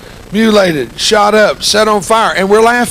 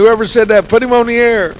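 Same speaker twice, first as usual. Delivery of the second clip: higher, louder mock caller demand; imitated insistent caller; 8 semitones higher, 5 dB louder than usual. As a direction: lightly act an eager phone-in request. Imitating the other eager callers.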